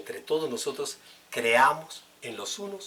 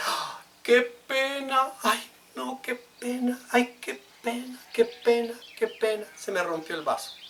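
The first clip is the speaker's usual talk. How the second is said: embarrassed guest; 11 semitones higher, 3 dB louder than usual. Retold or imitated. Preacher mimics the embarrassed visitor apologizing, high. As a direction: ham up the guest who broke the glass, high. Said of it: "usted dice".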